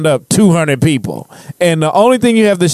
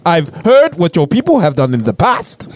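put-on African accent. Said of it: "not do the accent".

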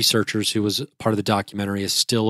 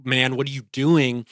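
slightly raised, urgent mock reproach; retold self-scolding; 3 semitones higher than usual. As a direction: chide yourself mid-panic. Retold frantic self-talk at the gate.

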